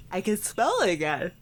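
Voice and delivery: talking through a yawn; words stretched by a real yawn. Real, not acted. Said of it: "Sorry, I yawned".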